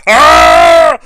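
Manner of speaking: loud sudden fighter's yell; mock grunt. Fan acting out Nikki's forearm blow, loud yell. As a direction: bark out the impact of a strike.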